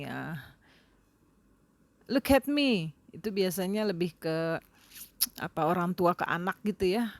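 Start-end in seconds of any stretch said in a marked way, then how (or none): 2.1-2.9 put-on mother scolding child. Shown as a demonstration. Mother ordering her child.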